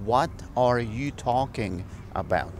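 said slowly, word by word; slow it down for learners; slow, careful repeat. Shown as a demonstration. (despacio y claro para los alumnos)

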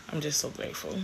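soft, teary, fighting not to cry; quiet gratitude on the edge of tears; holding back tears. Real, not acted. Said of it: "I don't wanna cry in this video".

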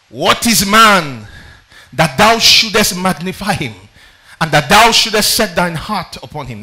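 very slow, loud, each phrase weighed; loud slow scripture question. Acted. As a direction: ask it to the heavens slowly. Reading Job's question emphatically.

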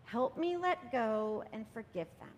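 slow, gentle letting-go prayer; calm plea to let go; gentle release prayer. Shown as a demonstration. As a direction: ease into it slowly, hands opening. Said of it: "and say".

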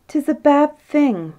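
high, slow acted insistence; insistent retort. A narrator's reading. Queen starting another reply to the king, insistent and high. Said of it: "but the king interrupted her".

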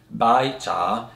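"bai cha" slowly, each syllable rising; teacher's demo of "bai cha" in second tones; two rising tones. Shown as a demonstration. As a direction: lift the pitch on "bai", then on "cha". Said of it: "which is two rising tones".

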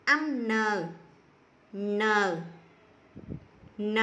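teacher models "N" firmly for the class to repeat; model sound N. Shown as a demonstration. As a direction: say the letter sound "N" crisply, pausing between each. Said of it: "Các con cùng cô đọc lớn lên".

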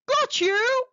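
snapped. Acted. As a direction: snap it as the shark grabs his prey. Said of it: "he snapped".

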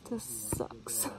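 soft defeated whisper; hushed grumble to yourself. Real, not acted. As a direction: breathe it out under your breath. Miserable aside while failing.

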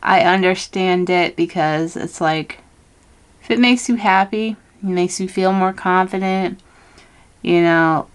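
talking while doing lip liner; while putting on lipstick. Real, not acted. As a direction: speak while lining the lips. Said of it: "I'm trying to talk and do lip liner".

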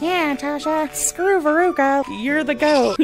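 high-pitched, hyped-up fan imitation; mock cheering commenter. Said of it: "I saw stuff being like".

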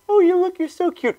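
high, sweet mock coo; cutesy cat talk. Angry cat guy to his cat, cutesy coo. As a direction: coo at a pet in a high little voice. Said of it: "He's like".

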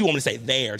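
"there" carefully formed with an eh vowel; forced proper pronunciation. Shown as a demonstration. Local trying to lose the accent for friends, forced proper pronunciation. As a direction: make a proper "there" sound like effort. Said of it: "my mouth hurt".

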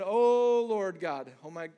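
sudden loud "Oh" then Lord God; loud cry of awe. Retold or imitated. Preacher voicing Gideon's loud cry of alarm. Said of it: "he said".

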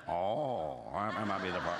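low, chuckling mock reply; laughing reply.

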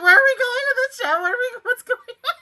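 high, fast, frantic questions; retold panic. Viewer recalling lost confusion over the plot, retold panic. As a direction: relive the panic, tumbling through the questions. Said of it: "and I was like".

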